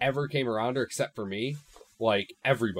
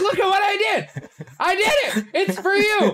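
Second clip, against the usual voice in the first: very high, slow, drawn-out cat voice; 7 dB louder than usual. Retelling what the cat's expression seemed to say: voicing the pet cat. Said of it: "she's like".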